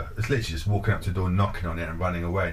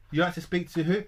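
high, puzzled receptionist voice; mock receptionist; 9 semitones higher than usual. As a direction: ask it back pitched high and baffled. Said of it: "the receptionist speaker".

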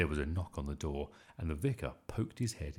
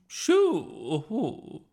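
long, high, loud shooing; screech; 11 dB louder than usual. A narrator's reading. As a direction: screech it to drive the dog away. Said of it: "she screeched".

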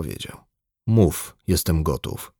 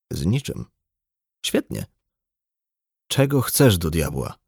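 ordinary delivery, nothing marked

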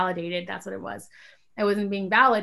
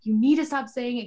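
mildly angry; 4 semitones higher, 5 dB louder than usual. Retold or imitated. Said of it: "I got really mad".

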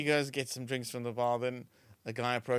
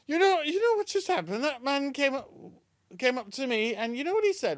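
high, louder Yorkshire wife; Yorkshire accent; 11 semitones higher, 4 dB louder than usual. Acted. Wife in a joke reports the stranger to her husband, Yorkshire accent. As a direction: tell on him in an agitated Yorkshire voice. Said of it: "the Yorkshire accent really makes it".

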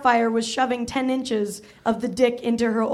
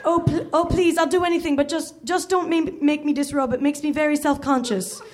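put-on pleading old nanny; 3 semitones higher than usual. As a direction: beg her not to make you undress. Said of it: "pleaded Missus Doubtfire".

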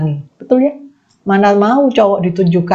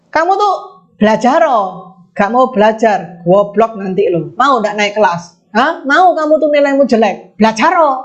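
mock scolding. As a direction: scold the kid to study, half-acted. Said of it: "Ini ngomongnya".

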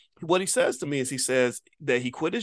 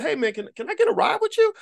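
high-pitched shouted request; imitated yelling. Asking a fan in a truck for a ride, imitated yell. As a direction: call out a favor across the street. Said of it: "we were yelling back and forth".

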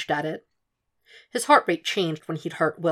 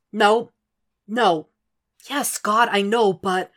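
higher, louder, flustered; frustrated protest; 4 semitones higher, 4 dB louder, slower than usual. A narrator's reading. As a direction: cut off mid-argument. Arguing with mother on phone.

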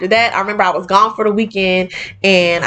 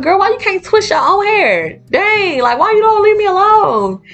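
higher, sassy irritated snap; retold snap; 11 semitones higher than usual. Tired caretaker snaps at the girl who wants her hair twisted, higher sassy voice. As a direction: brush the kid off with attitude. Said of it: "snapped at her like that".

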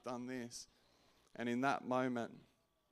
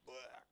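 mock dry retch; 2 semitones higher, 8 dB quieter than usual. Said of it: "I started to dry reach".

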